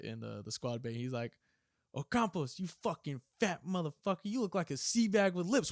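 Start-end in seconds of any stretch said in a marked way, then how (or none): 1.9-5.7 raised, louder mock drill-instructor tirade; retold insult, punched out; berating drill instructor. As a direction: chew out a recruit, hammed-up.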